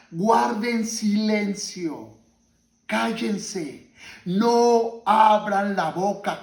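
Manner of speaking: slow, drawn-out order; solemn command. Retold or imitated. Preacher voicing Joshua ordering the people to keep silent, solemn command. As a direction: give each order its own weight, slowly.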